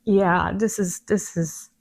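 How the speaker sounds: trailing off, too emotional to finish; choked up. Real, not acted. Host overcome with emotion, voice dropping away. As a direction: voice fading into tears. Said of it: "I'm getting emotional".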